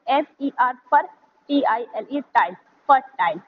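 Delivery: फर्टाइल sounded as पर plus टाइल; read in chunks. Shown as a demonstration. Teacher shows how to sound out फर्टाइल in parts. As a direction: break फर्टाइल into पर, टाइल, then join as फर्टाइल. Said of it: "इस तरीके से पढ़ें".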